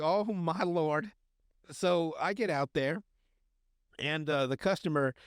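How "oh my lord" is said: slow, drawn-out exasperation; mock dismay. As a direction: stretch it out in weary disbelief. His exasperated reaction, drawn out.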